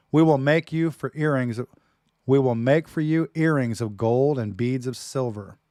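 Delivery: loud, slow, fervent scripture reading; dramatic reading. Acted. Preacher reading the Song of Songs aloud to his wife, loud and slow. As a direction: declaim it like a lover's poem. Reads love poem dramatically.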